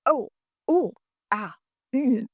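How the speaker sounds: lightly voiced fretful mom wincing in sympathy; a hint of a worried mother going ooh and ah; mild mock mom sympathy noises; fussing mom. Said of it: "like the mom".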